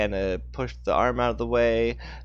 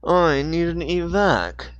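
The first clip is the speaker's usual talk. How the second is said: slow, higher clipped radio call; the corrected Dixon voice; Dixon's voice; 9 semitones higher, 7 dB louder, slower than usual. Acted. Dixon calls for evac on the walkie-talkie in his voice. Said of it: "wrong voice again".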